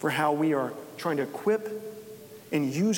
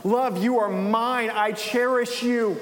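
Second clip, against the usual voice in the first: higher, slow, tender voice of a loving father; tender Jesus; 5 semitones higher, slower than usual. Acted. Jesus tenderly welcoming a guilty believer, slow and high. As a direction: speak each word gently, as if cherishing a child. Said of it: "And Jesus looks at you and says".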